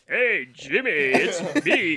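put-on singer's voice, lightly exaggerated; hammed-up drawn-out self-introduction. Mimicking the singer greeting a talk-show host, mock impression. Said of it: "my voice sounds like this".

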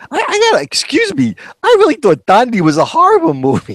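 finally blurting it out; exasperated friend. Retold or imitated. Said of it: "finally he goes".

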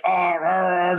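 imitated pained groan; mock groaning in rhythm; cramped groan. Telling a friend about the thigh cramp, groaning.

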